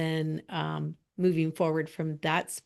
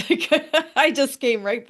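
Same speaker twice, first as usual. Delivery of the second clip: laughing; 7 semitones higher, 7 dB louder than usual. Retold or imitated. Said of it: "one of the girls said".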